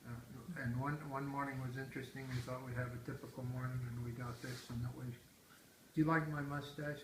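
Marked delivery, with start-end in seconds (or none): 5.1-7.0 muffled, hand over mouth; talking through a hand over the mouth. Real, not acted. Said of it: "I like you to not put your hand over your mouth when you're talking".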